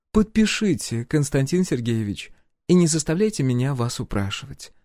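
polite but commanding; empress voice. A narrator's reading. Empress presses the hero to sign, lightly voiced.

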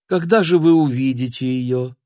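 spring the question abruptly; sudden question. Acted. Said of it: "вдруг спросила сеньора".

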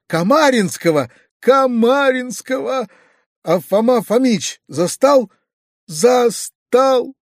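high, drawn-out tearful wail; sobbing wail. A narrator's reading. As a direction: wail each phrase slowly, pitch climbing. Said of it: "всхлипывая". (протяжно, плаксиво)

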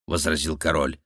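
usual speaking voice

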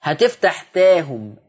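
تاهم with an open a, no tilt; slow open-vowel تاهم; open vowel demo. Shown as a demonstration. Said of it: "لو أنت قصرت آه".

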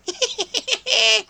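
vile, high-pitched demon laugh; disgusting high cackle. Acted. Hidden demon mocking the witch, vile high cackle. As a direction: cackle like a nasty imp. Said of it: "Мерзкий, отвратительный".

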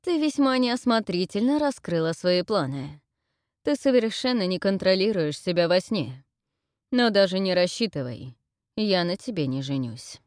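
put-on king scolding the girl; stern scolding. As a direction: lecture her sternly. Brute scolding her.

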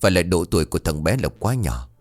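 somber condolence. Acted. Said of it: "bà Hai thở dài quay sang".

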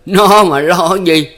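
mock his own fate; giọng mỉa mai cay đắng; bitter sarcasm. A narrator's reading. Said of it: "cười khan".

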